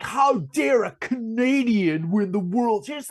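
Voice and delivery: a slow, lightly indignant put-on voice; hammed-up outrage at a Canadian win; mock upset American. Mocking upset American fans over the Canadian win, mild mock indignation. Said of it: "Americans got so upset".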